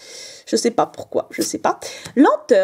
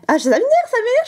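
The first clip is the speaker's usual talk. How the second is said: higher, fast exasperated outburst; fed up; 10 semitones higher, faster than usual. Real, not acted. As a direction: blurt it out, annoyed. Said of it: "je pense plus qu'à ça". (agacée, plus aiguë et rapide)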